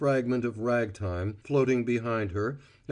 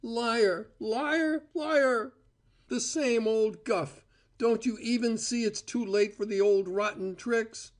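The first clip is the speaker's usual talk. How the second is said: higher, mocking scream of liar; furious; 11 semitones higher than usual. A narrator's reading. Cora shouting Val down in contempt, high furious scorn. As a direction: spit each liar higher.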